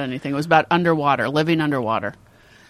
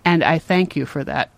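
measured, earnest mock thanks; all-serious child; 3 semitones lower than usual. Mother quoting her son's thanks, mock solemn. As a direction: imitate a kid being solemnly grateful. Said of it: "he's all serious".

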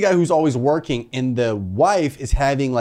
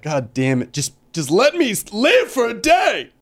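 pleading sweatpants; 5 semitones higher than usual. Pretend. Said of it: "the gray sweatpants are sitting in the closet like".

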